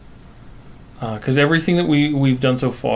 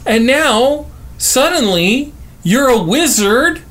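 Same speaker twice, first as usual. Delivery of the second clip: mock outraged shout; 12 semitones higher than usual. Angry quote, high put-on voice.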